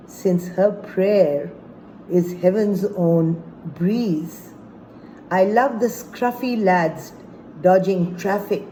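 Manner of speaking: measured poetry reading with pauses between phrases; deliberate, phrase-by-phrase delivery of verse; poem recitation. Acted. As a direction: recite it as a love poem, line by line. Recites own poem about Karachi.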